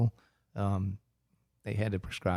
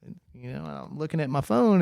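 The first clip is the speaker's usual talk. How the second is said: usual speaking voice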